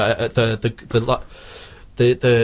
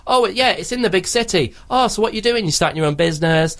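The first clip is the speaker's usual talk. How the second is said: mock chirpy friend; 6 semitones higher than usual. Mock Disney heroine chat.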